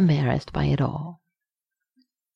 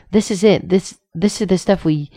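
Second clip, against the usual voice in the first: higher, louder sudden outburst; blurted; 4 semitones higher, 4 dB louder than usual. A narrator's reading. Rodney blurts to Lorama about the stuff, excited outburst. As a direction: blurt it out before you can stop yourself. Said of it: "turned to Lorama and blurted".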